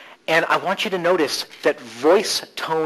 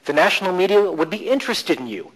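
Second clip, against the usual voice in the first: "interested" picked out and lifted; stress on INTERESTED; 3 semitones higher than usual. Shown as a demonstration. Coach shifting stress to challenge a belief, stress on "interested". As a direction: lean into the word "interested". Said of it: "stress in different places".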